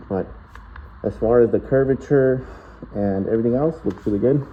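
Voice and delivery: speaking muffled behind a face mask; muffled through mask. Real, not acted. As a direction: talk through a dust mask. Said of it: "Sorry if my voice sounds muffled, I'm wearing the mask".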